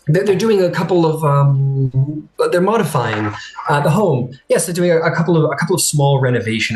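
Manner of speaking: flustered clerk. Acted. Clerk makes excuses.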